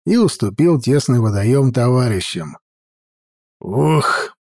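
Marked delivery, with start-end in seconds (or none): 3.6-4.4 pleased grunt. Acted. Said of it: "довольно крякнул".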